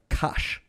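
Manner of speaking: kosh said softly with a "sh" ending; mistaken "sh" sound. Shown as a demonstration. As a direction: show the wrong middle of focaccia as kosh. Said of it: "I've been saying focaccia".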